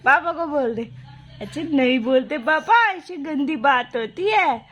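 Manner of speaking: put-on slow, drawn-out baby-talk. Mother coaching baby to answer papa, sing-song baby-talk. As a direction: coo a gentle mock scolding.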